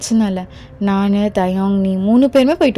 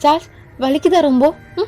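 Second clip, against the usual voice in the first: higher, alarmed pleading; shocked protest; 5 semitones higher than usual. Acted. Wife protesting to Thayam after he slaps Charles, shocked. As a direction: cry out in dismay at the slap.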